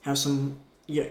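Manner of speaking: normal talking voice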